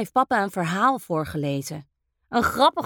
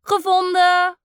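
excited discovery, getting louder; boy finds the ghost in the wall, calling out in triumph; triumphant call; 9 semitones higher, 5 dB louder, slower than usual. A narrator's reading. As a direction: shout it like you won the game. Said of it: "roept hij".

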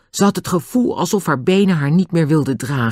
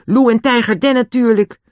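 high-pitched, dismissive answer; George, scornful; 9 semitones higher, 4 dB louder than usual. A narrator's reading. Girl names the obvious culprits, mildly scornful. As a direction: state the obvious with mild disdain. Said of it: "zei George minachtend".

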